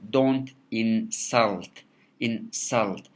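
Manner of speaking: slow demo of insult with SULT stressed; stress on second syllable. Shown as a demonstration. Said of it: "the second syllable of insult is stressed".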